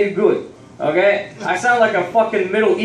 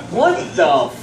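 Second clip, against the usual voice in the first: high, slow, drawn-out mock bewilderment; baffled disbelief; 8 semitones higher, slower than usual. Customer hearing the shopkeeper's accent vanish, baffled. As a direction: stretch it out in comic shock.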